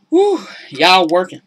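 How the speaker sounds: loud exasperated exclamation; exasperated whew. Real, not acted. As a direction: blow out a tired whew. Exclaiming at women's unpaid work.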